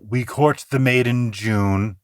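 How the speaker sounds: mock highbrow. Shown as a demonstration. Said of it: "Not the highbrow".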